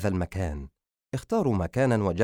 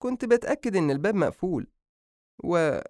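high-pitched, flustered mother; anxious, much higher voice; nervous excuse; 9 semitones higher than usual. Acted. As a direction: offer a feeble excuse and trail into silence. Mother invents excuse to husband.

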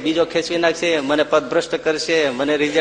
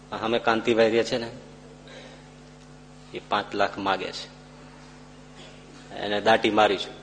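worried confiding; 7 semitones lower, 7 dB quieter than usual. Retold or imitated. Worried husband confides to wife.

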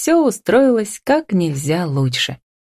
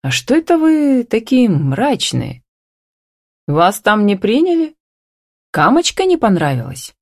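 higher-pitched demanding questions; a mother's insistent questioning, pitched up; 6 semitones higher than usual. A narrator's reading. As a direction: press them for answers. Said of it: "требовательно затараторила".

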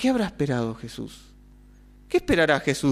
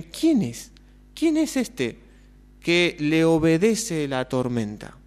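astonished disciples. Acted. Disciples asking each other about Jesus, amazed. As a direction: ask it in wonder, pitch jumping up on quién. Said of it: "quedan asombrados".

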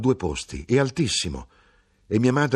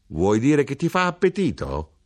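raised, high questioning cry; grido; 7 semitones higher, 5 dB louder than usual. A narrator's reading. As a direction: cry out the question, higher and louder. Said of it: "E mia madre gridò". (domanda gridata, acuta e forte)

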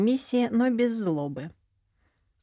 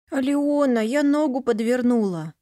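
higher, louder tearful cry; sobbing; 5 semitones higher, 4 dB louder than usual. Acted. Injured girl reaching out to Alyona, tearful. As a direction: whimper it out like a hurt child. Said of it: "всхлипнула девочка".

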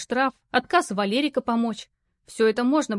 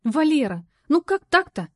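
rising reproach, louder; a narrator's Lara confronting him; mock scolding; 6 semitones higher, 5 dB louder than usual. A narrator's reading. Lara scolding coworker Valera for his blunder, reproachful. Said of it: "сходу наехала Лара".

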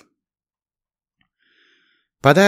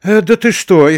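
frightened; 10 semitones higher, 7 dB louder than usual. A narrator's reading. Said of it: "испугалась мисс Блэквуд".

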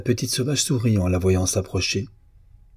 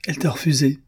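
mildly lecturing, pitched up; a touch of higher-pitched pomposity; doctoral tone; 6 semitones higher, faster than usual. A narrator's reading. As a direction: pronounce it like a learned doctor, lightly. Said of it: "fit André d'un ton doctoral".

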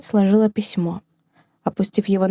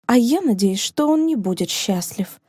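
through gritted teeth; 2 semitones higher than usual. Acted. Rosina curses the faithless man through gritted teeth. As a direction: hold back the anger and grind it out. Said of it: "процедила она сквозь зубы".

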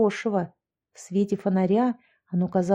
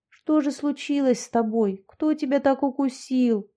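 higher, gentle coaxing voice; tender murmuring; 4 semitones higher than usual. Acted. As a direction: soothe a hurt dog. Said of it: "ласково приговаривала Яшка".

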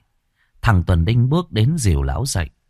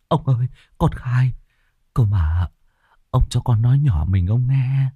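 begging peasant; 3 semitones higher than usual. Acted. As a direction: plead for mercy, voice pitched up. Peasant pleading.

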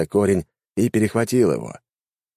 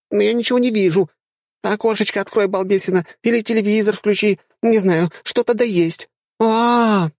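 put-on high, squeaky girlish chatter; squeaky dryad; 14 semitones higher, 3 dB louder than usual. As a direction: play a silly little dryad, pitched way up. Dryad voiced in story.

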